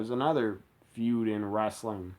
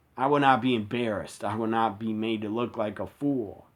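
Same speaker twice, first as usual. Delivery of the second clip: ordinary talk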